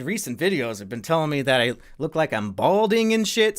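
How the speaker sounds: normal talking voice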